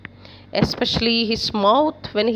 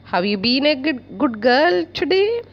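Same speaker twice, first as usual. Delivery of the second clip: a touch of gentle father, rising high at the end; 3 semitones higher, 4 dB louder than usual. Retold or imitated. A father asks his little daughter, lightly voiced gentle question. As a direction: coax the girl kindly, lifting on today. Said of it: "In a very gentle way".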